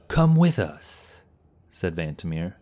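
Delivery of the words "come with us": high, drawn-out calling shout; urgent shout. A narrator's reading. Knight urging comrade not to stay behind, shouted. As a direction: call out slowly, high and loud.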